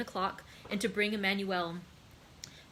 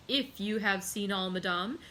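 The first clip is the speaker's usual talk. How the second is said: awful calmness. Acted. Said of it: "with awful calmness".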